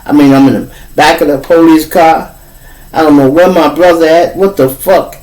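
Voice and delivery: mild mock panic; panicked boy. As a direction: wake up scared and lost. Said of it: "looking like".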